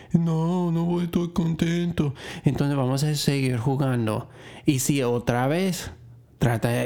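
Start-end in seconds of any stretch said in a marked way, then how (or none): 0.1-2.1 lightly voiced child, a touch higher; child's voice. Shown as a demonstration. A teacher lightly voicing the child who would be unhappy. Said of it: "no vas a estar contento, ¿sí?".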